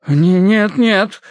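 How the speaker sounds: high-pitched hurried refusal; flustered clergyman. A narrator's reading. Clergyman refuses the visitor entry, flustered.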